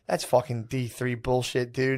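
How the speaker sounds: slow, soft, dismissive put-down; quiet dismissive. Retold or imitated. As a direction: brush him off slowly and softly. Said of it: "he would just go".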